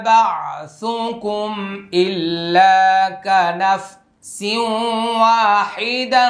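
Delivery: slow, drawn-out tajweed chant; measured melodic intoning; Quran recitation. Acted. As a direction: recite phrase by phrase, holding the long vowels.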